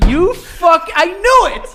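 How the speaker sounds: gleeful gotcha; excited. Real, not acted. Co-host catches friend out.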